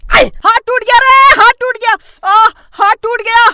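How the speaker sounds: high wailing cry of pain. Acted. Boy wailing to himself after punching the wall. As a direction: wail that the hand is broken.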